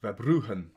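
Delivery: tentative Dutch-style Verbruggen, breathy g sound; Dutch pronunciation attempt. Shown as a demonstration. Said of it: "I think it's Verbruggen".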